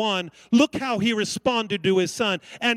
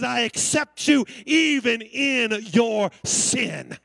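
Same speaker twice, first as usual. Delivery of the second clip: tender acceptance; 2 semitones higher, much slower than usual. Acted. Father embracing the returning son.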